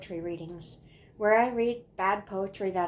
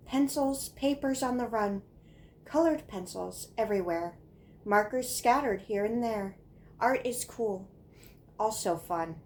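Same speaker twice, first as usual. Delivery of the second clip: singsong recitation of rhyming couplets; poem reading; 2 semitones higher than usual. Acted. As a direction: recite a child's rhyme, pausing at each line. Reads childhood poem aloud.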